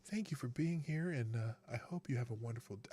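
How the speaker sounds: hushed, even, unhurried doctor voice; Ben Carson calm voice. Retold or imitated. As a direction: impersonate a soft-spoken surgeon who never raises his voice. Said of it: "I'm still talking like Ben Carson".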